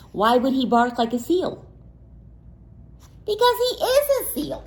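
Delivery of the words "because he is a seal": playful. Acted. Teasing answer to listening kids.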